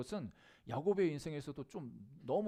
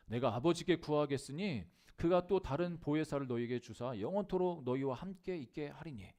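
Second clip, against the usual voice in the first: louder, measured Bible recitation; scripture reading; 5 dB louder than usual. Acted. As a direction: proclaim the verse to the congregation. Reads a Bible verse aloud.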